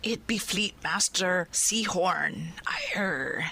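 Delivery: whispered pirate growl, hushed all through; a pirate whispering a rumour. Acted. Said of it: "I'm terrible at this".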